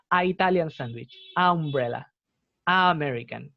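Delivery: "a" run straight into the next vowel; article without N. Shown as a demonstration. Teacher showing how awkward it sounds, "a" without n. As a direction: say "a" with no linking n before each vowel. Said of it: "Sonaría raro".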